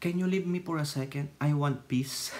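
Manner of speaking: soft, hushed plea to be left alone; a hushed request for quiet time; mock plea for peace. Vlogger mimicking someone asking for peace, hushed. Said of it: "Di ba pag sinabi mo".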